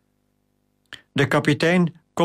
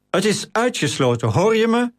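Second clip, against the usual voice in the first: growling; 9 semitones higher than usual. A narrator's reading. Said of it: "gromde Gratus".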